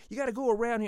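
mock bossy attendant; retold yelling. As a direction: order him around impatiently. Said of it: "he's yelling at me".

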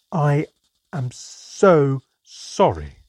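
slow, drawn-out sheepish apology; a small goblin child mortified, stretching it out; young goblin squeezing out an apology; embarrassed goblin child. A narrator's reading. Goblin child apologises after burping.

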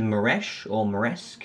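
"Moresh" ending in sh, "Moresk" ending in sk; two candidate pronunciations. Real, not acted. Host unsure of a player's name, slowly contrasting Moresh and Moresk. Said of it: "how do you pronounce it".

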